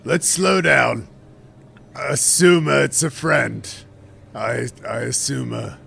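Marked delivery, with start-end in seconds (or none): 0.0-3.7 slow, loud call to a stranger. Acted. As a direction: call out slowly so they hear. Calling out to stranger.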